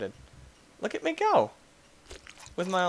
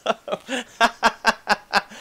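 mocking squeaky voice; 6 dB louder, much slower than usual. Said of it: "Everybody's like".

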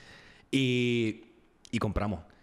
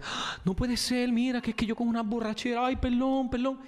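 mock apology; 10 semitones higher than usual. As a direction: play the drunk woman begging pardon. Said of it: "Y dice". (disculpa burlona y aguda de la mujer borracha)

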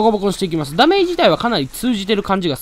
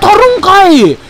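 high, loud "no way" yelp; surprised outcry; 12 semitones higher, 11 dB louder, slower than usual. Real, not acted. Gamer shocked that the attack hit him, a loud high yelp. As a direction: blurt it out, caught off guard.

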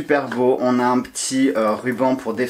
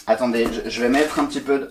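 ordinary delivery

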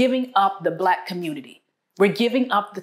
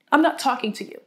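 mock sulk; 6 semitones higher, faster than usual.

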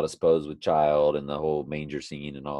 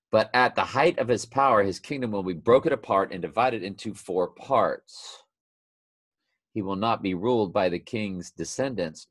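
scripture reading; 2 semitones higher, 3 dB louder than usual. Acted. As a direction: proclaim the prophecy, then let it settle. Reads scripture aloud.

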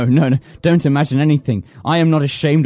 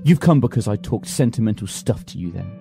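cold cruelty; 5 semitones lower than usual. Acted. Cruel low confession.

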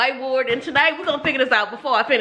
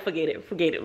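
dismissive quote; 7 semitones lower, 9 dB quieter, faster than usual. Retold or imitated. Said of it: "Harry was just like".

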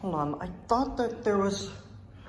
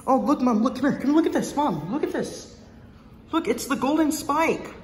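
calling out; 4 semitones higher than usual. Real, not acted. Kid calls his mom over to see an exhibit, eager call.

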